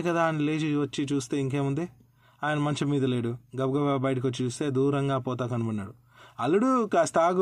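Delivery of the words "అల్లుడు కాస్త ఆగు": higher, louder call after the son-in-law. Acted. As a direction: shout for him to stop, across a distance. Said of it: "అంటూ గట్టిగా అరిచినారు".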